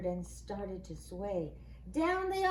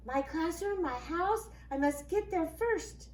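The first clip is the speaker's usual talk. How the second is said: teasing leprechaun; 5 semitones higher than usual. Acted. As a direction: crow it like a cheeky imp. Leprechaun's note read aloud.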